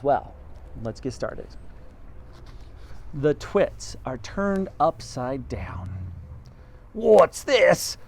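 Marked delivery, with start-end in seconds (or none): 3.1-5.9 hushed chapter heading; whispered chapter title. Acted. 6.9-8.0 high startled gasp, louder; husband startled at the living room. Acted. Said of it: "gasped Mister Twit".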